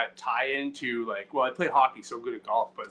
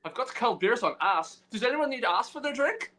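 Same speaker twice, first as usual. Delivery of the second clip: put-on host voice; 7 semitones higher than usual. Playing host offering drinks.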